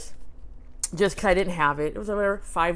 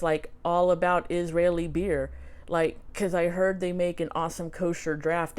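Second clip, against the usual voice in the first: lightly imitated Canadian hoser accent; casual read-out with a touch of Canadian hoser; Bob McKenzie. Reading Bob's autograph to viewers, light Canadian hoser accent. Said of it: "my Canadian hoser accent".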